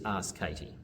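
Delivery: usual speaking voice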